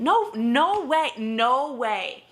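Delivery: outraged refusal. Real, not acted. Reviewer rejects an unbelievable plot point, loud and exasperated.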